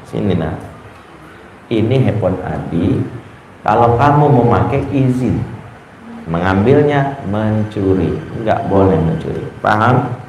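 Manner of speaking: menasihati anak dengan lembut dan pelan. Retold or imitated. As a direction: nada menasihati yang tenang. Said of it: "saya pelan-pelan aja bilang ibunya". (ayah menasihati anak dengan lembut)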